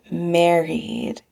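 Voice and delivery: contented, savouring the word; pleased and settled; satisfied. A narrator's reading.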